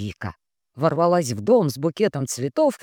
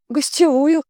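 high, louder rising question; surprised; 12 semitones higher, 6 dB louder than usual. A narrator's reading. Housekeeper surprised at guest room request, high rising. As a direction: gasp it out in surprise. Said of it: "удивилась Лариса".

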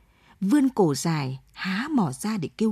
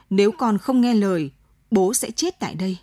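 hard, firm voice. Acted. Father threatens his son with the gun, firm and hard. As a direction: set the jaw and lay down the ultimatum. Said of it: "giọng đanh cứng".

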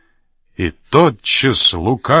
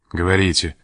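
gloomy mutter; 3 semitones lower than usual. A narrator's reading. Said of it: "пробормотал майор мрачным голосом".

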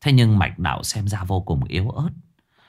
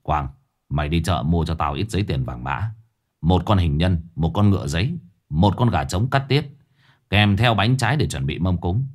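put-on grim old sorcerer; 3 semitones lower than usual. Lão Năm gives orders.

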